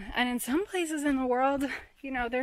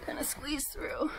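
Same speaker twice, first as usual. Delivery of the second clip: soft whisper while squeezing through; breathy hush in a tight spot; 5 semitones higher, 4 dB quieter than usual. Real, not acted. Hiker squeezing through a cave gap, whispered.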